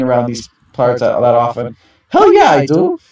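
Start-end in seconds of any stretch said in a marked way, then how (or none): 2.1-3.0 much higher, loud triumphant cheer; fired-up yell. Acted. Risa cheering about fighting Team Yen, high fired-up yell. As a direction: burst out with fiery enthusiasm.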